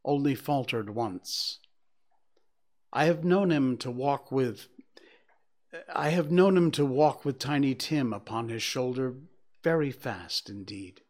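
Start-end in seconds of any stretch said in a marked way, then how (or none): 2.9-11.0 steady, faltering cheer. Acted. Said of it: "steady, cheerful voice that only faltered once".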